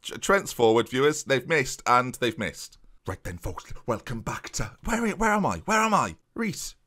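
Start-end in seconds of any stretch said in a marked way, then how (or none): 3.1-6.8 put-on a stab at a Geordie accent that drifts Irish or Welsh; quick trial Geordie accent, not quite landing; attempted Geordie accent. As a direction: try the Geordie accent and miss a little. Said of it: "No, it sounds Irish or Welsh".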